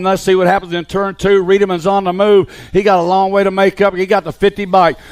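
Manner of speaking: brisk race call, steady and driving; live play-by-play. Acted. Announcer calling the BMX race to the crowd, live play-by-play. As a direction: call the riders through every corner.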